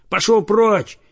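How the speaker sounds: shout. A narrator's reading. Boy yelling Пошёл прочь at the dog. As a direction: bark Пошёл прочь out high and loud. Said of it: "крикнул он".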